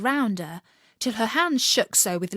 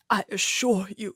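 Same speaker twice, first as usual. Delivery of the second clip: timid, hushed king; mild scared murmur to the queen; frightened whisper. A narrator's reading. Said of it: "talking together in a frightened whisper".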